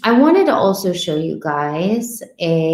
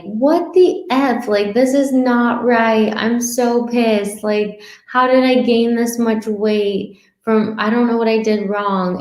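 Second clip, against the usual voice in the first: high, slow mock indignation; mock outrage; 3 semitones higher than usual. Dieter finding a weight gain on the scale, slow mock outrage. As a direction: act pissed at the scale, playfully.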